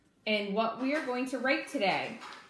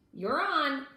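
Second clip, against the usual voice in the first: higher and louder, delighted; thrilled; 6 semitones higher, 4 dB louder than usual. A narrator's reading. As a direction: say it like you just won a prize. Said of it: "thrilled Early Bird".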